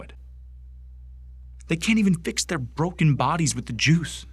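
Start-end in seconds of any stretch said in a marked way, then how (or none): 1.7-4.3 heated, higher-pitched grievance; indignant rant. Acted. Bigot railing to a superior about skinnies, indignant. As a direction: press each accusation with rising indignation.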